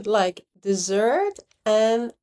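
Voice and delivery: "dessert" said slowly, stress on the second syllable. Shown as a demonstration. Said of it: "practice, uh, certain words in English". ("dessert" said slowly, with the stress on the second syllable)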